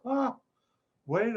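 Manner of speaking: high "ah"; a thought just hit you; mock realisation.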